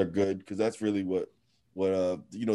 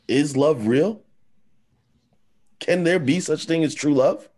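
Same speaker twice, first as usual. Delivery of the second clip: high, louder, melodramatic questioning; mock despair; 6 semitones higher, 5 dB louder than usual. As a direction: plead it theatrically, tongue in cheek. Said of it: "I was being sarcastic".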